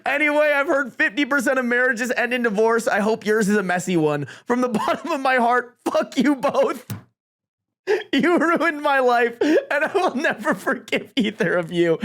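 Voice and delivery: high mock speech breaking into laughter. Jilted best man cursing the couple, laughing speech voice. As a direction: declaim it while fighting back laughs. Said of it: "I'm giving a speech voice".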